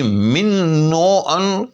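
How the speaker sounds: من و ان drawn out very slowly with a doubled n: minn-o-an; slow classroom demo of من و ان. Shown as a demonstration. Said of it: "اگر ہم کہیں تو ایک غلطی".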